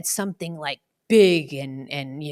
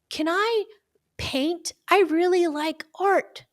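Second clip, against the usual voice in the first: put-on high, pleading little kid; child voice; 10 semitones higher than usual. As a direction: ask like a hopeful child. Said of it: "imagine the kid that says".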